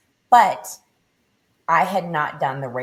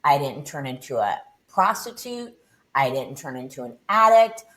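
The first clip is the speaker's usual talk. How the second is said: retold angry rant at God, rising; infuriated rant; 3 semitones higher than usual. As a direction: let the fury climb line by line. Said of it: "so infuriated".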